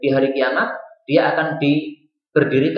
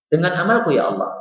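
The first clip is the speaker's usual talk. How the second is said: higher-pitched mild protest; stubborn insistence; 5 semitones higher than usual. Retold or imitated. Servant insisting to Allah on his own deeds, mildly stubborn. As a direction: lightly imitate a servant who keeps insisting. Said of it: "Hamba itu masih ngeyel".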